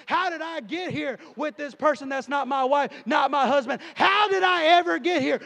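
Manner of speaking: loud, driving revival preaching; fiery preaching. Acted. Preacher warning the church, loud fiery preaching. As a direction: preach it with fire to the room.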